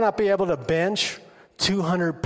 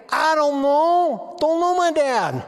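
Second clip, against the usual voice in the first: lightly voiced sad kid; 9 semitones higher, 5 dB louder, slower than usual.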